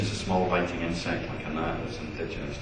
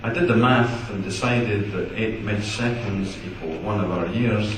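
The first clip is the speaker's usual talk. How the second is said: measured poem recital; poetry reading. Acted. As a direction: read it out to an audience, pausing at each line. Reads poem Giant aloud.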